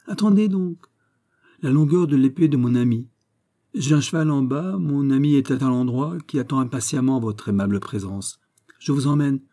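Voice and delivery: lightly voiced Porthos, pressing on with his account; Porthos, insistent and self-assured. (Porthos insistant, sûr de lui)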